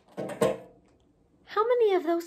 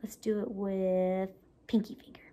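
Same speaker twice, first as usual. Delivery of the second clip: whisper; 4 semitones lower than usual. Real, not acted. Whispering the next round.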